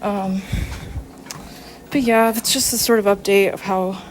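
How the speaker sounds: breathless while walking on a treadmill; out of breath on treadmill. Real, not acted. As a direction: talk between breaths mid-workout. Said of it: "Sorry I'm out of breath again on the treadmill".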